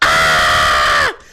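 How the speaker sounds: sudden frightened scream. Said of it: "some lady standing in line screams".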